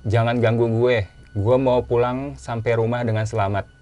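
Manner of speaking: mock yell, spelled out slowly; retold shouting. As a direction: imitate shouting a warning into the wild. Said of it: "Sambil gue teriak".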